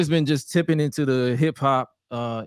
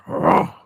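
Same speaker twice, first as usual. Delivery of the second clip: roar; 10 semitones lower, 6 dB louder than usual. Retold or imitated. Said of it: "I let out the biggest".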